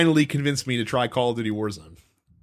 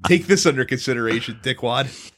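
quoting Hans Gruber; 4 semitones lower than usual. Retold or imitated. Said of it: "Here I am misquoting Die Hard".

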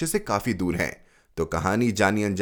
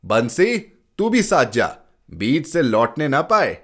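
calling out; 4 semitones higher, 4 dB louder than usual. Acted. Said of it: "मैंने पुकारा".

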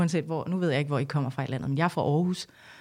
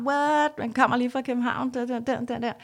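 mock smart Copenhagener; 5 semitones higher than usual. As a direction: play a cocky Copenhagen type, a bit mocking. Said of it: "farlig smart".

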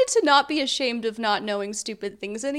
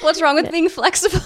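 squeaky, laughing disbelief; pitched up, laughing incredulous; high laughing question; 4 semitones higher, 5 dB louder than usual. Retold or imitated. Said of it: "I was like".

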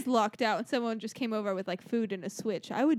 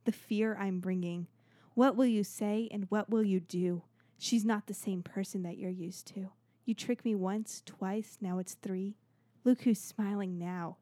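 dramatic poem reading. Acted. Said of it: "I'm gonna read a poem for you guys".

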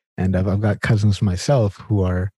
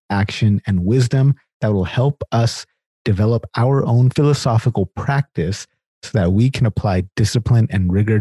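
upbeat announcer read of the guest bio; host intro read. Acted. Host reading the guest's bio to listeners, upbeat announcer style.

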